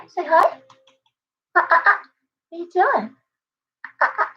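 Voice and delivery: high, sing-song coaxing of a pet bird. Real, not acted. Owner coaxing her cockatoo to talk, high baby talk.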